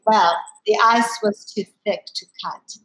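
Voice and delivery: put-on a light German accent, barely shifted from her own voice; hint of a German grandmother's accent, understated. Quoting her grandmother's wry saying in a light German accent. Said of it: "I'm gonna do her German accent".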